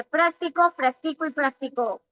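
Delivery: práctico, practico y practicó with stress moving from PRÁC to TI to CÓ; práctico on the first syllable, practico on the middle, practicó on the last; contrasting syllable stress. Shown as a demonstration. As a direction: shift the accent one syllable later on each of práctico, practico, practicó. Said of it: "diferenciar la sílaba tónica".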